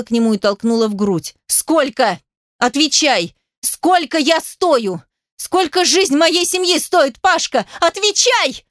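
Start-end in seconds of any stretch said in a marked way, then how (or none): 1.5-8.6 much higher, slow, shrieking each word; shrieking demand. A narrator's reading. Heroine shrieks at Pasha demanding her price. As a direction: shriek for an answer. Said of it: "Взвизгнула".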